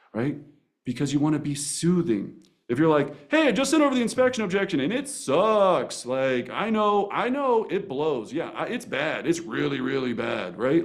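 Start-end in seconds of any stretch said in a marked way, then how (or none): 3.3-10.6 emotional rush. Shown as a demonstration. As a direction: blurt the bad news anxiously. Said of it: "Do not let your emotion enter".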